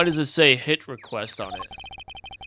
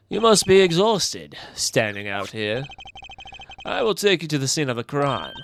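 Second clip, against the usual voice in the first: suave, lightly British gentleman; British accent. Acted. Gentleman offering to escort a girl, British accent. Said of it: "keep the British accent".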